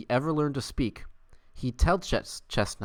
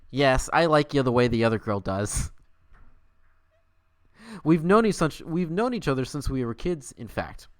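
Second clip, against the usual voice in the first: eager confession, pushed up; Etwa confessing; 3 semitones higher, 3 dB louder than usual. Acted. Streamer voicing Etwa confessing to Scrat, louder.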